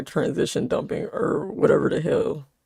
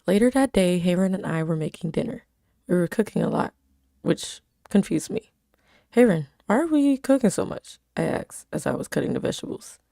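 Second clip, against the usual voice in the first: even storytelling read; story narration. A narrator's reading. Reading her story aloud.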